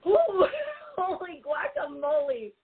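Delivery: laughing through real tears; holding back sobs. Real, not acted. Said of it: "Give me a second while I catch my breath".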